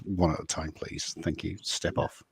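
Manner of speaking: lightly voiced talking scale; a soft, understated machine announcement, tailing off. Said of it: "your scale says".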